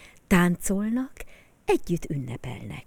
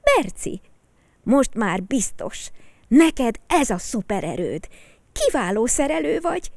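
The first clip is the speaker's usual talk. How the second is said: higher, louder, warm praise; admiring boy; 7 semitones higher, 5 dB louder than usual. Acted. Peti praising Berci for the repair, higher and admiring. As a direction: cheer your friend on. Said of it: "lépett oda hozzá Peti".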